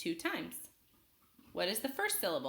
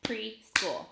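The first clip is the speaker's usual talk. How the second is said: "Preschool" in two separate beats, Pre, then school; split into syllables. Shown as a demonstration. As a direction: break "Preschool" apart after Pre. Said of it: "I'll clap it out".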